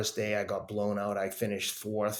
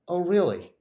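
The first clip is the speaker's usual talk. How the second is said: higher, louder challenge to a doubter; retold cocky defiance; 6 semitones higher, 4 dB louder than usual. Answering a friend's warning as a challenge, cocky defiance. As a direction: take the warning as a dare, voice lifted.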